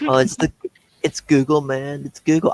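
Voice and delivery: lightly voiced stoner. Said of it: "I love doing this voice".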